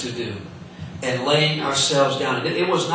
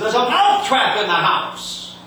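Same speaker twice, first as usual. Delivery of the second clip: high, lisping mouse cry; lisping mouse alarm to the cow; 8 semitones higher than usual. Acted. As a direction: call out like a frantic mouse. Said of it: "and he said".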